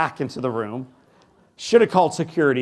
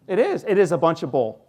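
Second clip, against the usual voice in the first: usual speaking voice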